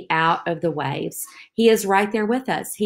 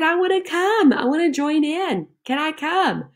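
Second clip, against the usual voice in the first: eager Peter; 10 semitones higher than usual. Acted. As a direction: beg like an excited kid wanting to join. Voicing eager Peter in story.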